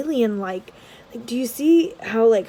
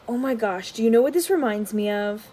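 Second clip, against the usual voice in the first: normal talking voice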